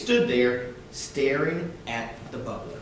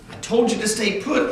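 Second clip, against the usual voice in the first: mild yell; 6 semitones higher than usual. Acted. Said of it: "Uncle Jack yelled".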